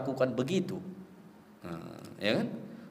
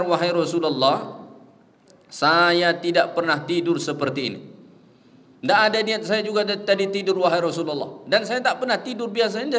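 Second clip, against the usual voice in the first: Bilal pleading; 4 dB louder than usual. Retold or imitated. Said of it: "kata Bilal kepada Rasulullah".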